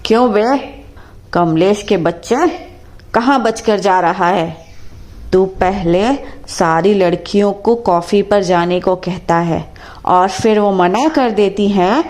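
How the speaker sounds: bossy mother-in-law putting a bully in his place; commanding, scornful telling-off; mother-in-law confronting Tina's boss in his office, domineering. Acted. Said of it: "अपने दबंग से आवाज़ में कहती है".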